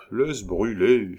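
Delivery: slow, tired reply; weary. Acted. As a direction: give up wearily, dragging the words. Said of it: "fit-elle avec fatigue". (avec fatigue)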